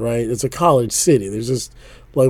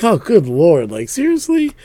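amused disbelief; 4 semitones higher than usual. Retold or imitated. Acted reaction to the insult.

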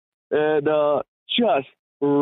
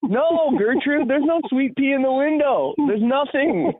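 higher, slow, patient but fed up; exasperated; 11 semitones higher than usual. Retold or imitated. Narrator tells Gertrude there is no dog, exasperated. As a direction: spell it out to her gently. Narrator retorting to old lady.

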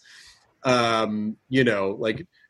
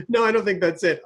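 imitating wife; 5 semitones higher than usual. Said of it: "That's exactly how she is".

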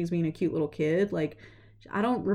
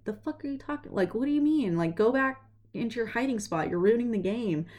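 annoyed brother; 4 semitones higher than usual. Retold or imitated. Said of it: "So Peter's like".

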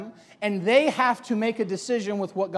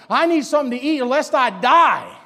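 desperate hungry plea; 3 semitones higher, 6 dB louder than usual. Acted. Famished Esau begging for food.

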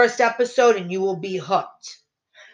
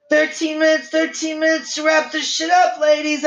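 high, raised call; urgent announcement; 9 semitones higher than usual. Real, not acted. Host warning the ladies of time left, urgent. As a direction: call out the countdown to everyone.

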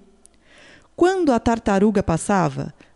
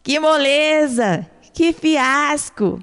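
triumphant shout; 2 semitones higher, slower than usual. Acted. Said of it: "a tartaruga gritou".

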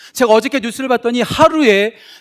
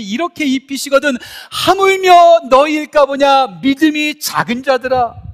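slow scripture reading; 5 semitones higher, 7 dB louder, slower than usual. Acted. Congregation reads scripture aloud.

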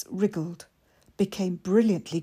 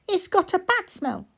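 put-on high, eager small boy; little boy voice; 12 semitones higher than usual. Mikey asking his sister, high and eager. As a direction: ask it wide-eyed like a small child.

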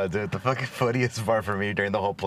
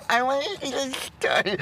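high, giggling mock whine; laughing mockery. Friend laughing while mocking his stargazing in a high voice. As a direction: laugh while parodying him.

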